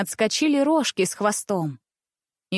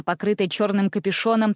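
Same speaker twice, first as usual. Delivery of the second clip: ordinary delivery, nothing marked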